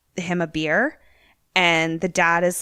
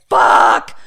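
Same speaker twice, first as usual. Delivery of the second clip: loud whispered curse; 9 dB louder than usual. Retold or imitated. Dad wakes on the stairs.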